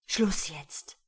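short, forceful order; stern command. A narrator's reading. Man orders the woman to stop, stern. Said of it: "herrschte er sie an".

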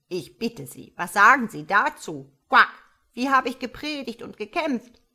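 put-on loud, croaky old frog voice; the frog mother complaining at length. Old frog mother complaining to the starling, croaky and loud. Frog's long speech.

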